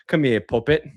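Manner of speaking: lightly put-on British come-on; a hint of British accent. Mocking British dirty talk, British accent. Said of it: "doesn't sound good in the British".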